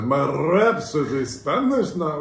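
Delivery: slow, swooping mock-Spanish accent. Teasing the co-host's attempt, in a mock-Spanish accent. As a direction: mimic a botched accent, drawing it out. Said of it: "What accent was that?".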